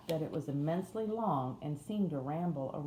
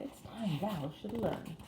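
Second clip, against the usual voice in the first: slow, higher Yorkshire housemaid; Yorkshire accent; 4 semitones higher, slower than usual. A narrator's reading. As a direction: take it slowly in Yorkshire dialect. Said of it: "in a broad Yorkshire accent".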